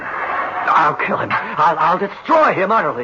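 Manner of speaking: seething. Acted. Designer in furious grief.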